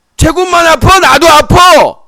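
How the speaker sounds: high, loud, frustrated yelling.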